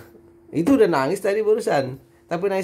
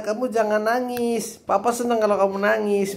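mock teasing papa; 5 semitones higher than usual.

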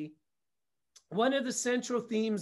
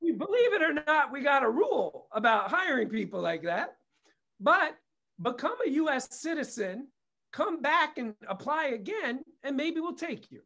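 paraphrased letter voice; 3 semitones higher than usual. Retold or imitated. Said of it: "the gist of the letter was".

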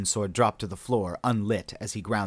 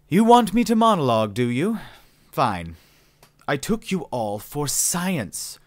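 smug villain monologue; 3 semitones higher than usual. Acted. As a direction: lecture the captives with bored superiority. Villain monologue after sighing.

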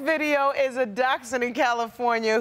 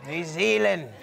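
"New Zealand" with a stronger Kiwi accent, lower; New Zealand accent, second try; 5 semitones lower than usual. Shown as a demonstration. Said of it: "if that's a good New Zealand accent".

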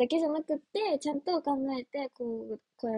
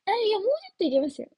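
quick, higher, louder goofy quip; odd playful banter; 8 semitones higher, 6 dB louder, much faster than usual. Retold or imitated. Telling her hairdresser to cut more, in a quick, playful, goofy quip. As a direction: toss it off like a silly joke at the salon. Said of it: "こういうなんかちょっと、なんか変なノリ".

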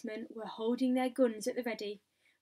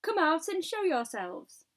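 raised, louder order; commanding shout; 6 semitones higher, 6 dB louder than usual. A narrator's reading. Police chief ordering the hidden travellers out, commanding shout. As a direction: call them out with authority. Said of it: "shouted the chief of police".

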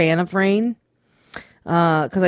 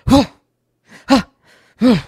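imitated huffing and puffing; 5 semitones higher, 6 dB louder than usual. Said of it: "huffing and puffing next to me".

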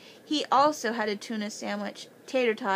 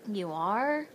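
nervous. A narrator's reading. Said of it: "he asked nervously".

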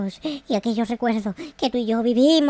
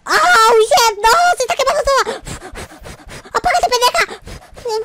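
much higher, louder frantic yelling; panicked screaming; 9 semitones higher, 4 dB louder than usual. Real, not acted. Gamer screaming at the fire burning his house, frantic. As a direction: shriek at the fire to go out.

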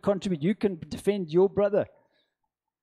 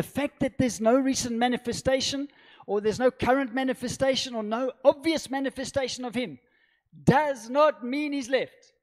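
emphatic preaching; 7 semitones higher than usual. Real, not acted. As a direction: press the point home from the pulpit, voice lifted.

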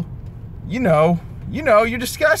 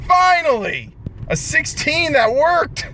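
relieved cheer; 7 semitones higher than usual. Real, not acted. Relief after pull.

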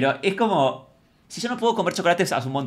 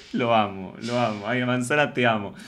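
affectionate; 3 semitones lower than usual. Real, not acted. Fond declaration after laughing at housemate.

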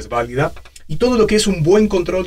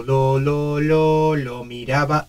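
put-on very old man; slower than usual. Shown as a demonstration. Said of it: "estábamos en esta frecuencia".

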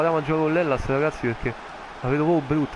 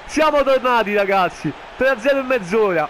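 very high, loud disbelieving shout; ecstatic goal scream; 10 semitones higher, 5 dB louder than usual. Real, not acted. (urlo di esultanza incredula)

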